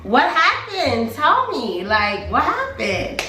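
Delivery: high, drawn-out impatient plea; acted-out exasperated begging to be told; impatient demand. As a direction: stretch it out, pressing a friend for the story. Impatient retelling of her demand to friend.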